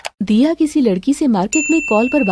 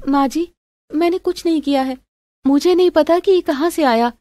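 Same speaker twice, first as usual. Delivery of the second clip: slightly pleading, higher voice; protesting daughter-in-law; 5 semitones higher than usual. Acted. Accused daughter-in-law protesting to mother-in-law, pleading. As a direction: insist on innocence, voice lifted.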